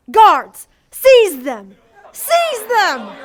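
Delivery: loud barked order; commanding shout. Acted. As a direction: roar the command at guards. Witch orders guards.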